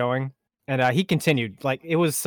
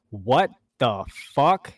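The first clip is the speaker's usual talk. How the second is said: put-on German accent; much slower than usual. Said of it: "imagine this in, like, a German accent".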